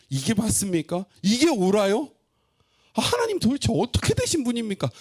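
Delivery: high, loud indignant protest; protesting outburst. Acted. Prophet protesting to God about Babylon, loud and indignant. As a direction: argue back at God, outraged. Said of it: "항변하는 거예요".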